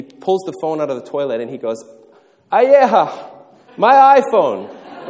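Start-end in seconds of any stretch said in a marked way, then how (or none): 2.5-5.1 high, loud, drawn-out wail over the iPhone; mock lament. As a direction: wail it like a grieving father, slowly. Father laments over phone.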